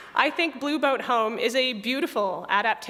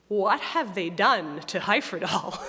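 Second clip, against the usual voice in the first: slow, mock-affronted disbelief; deeply affronted. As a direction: imitate an appalled purist, spacing out the words. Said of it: "in a deeply affronted tone".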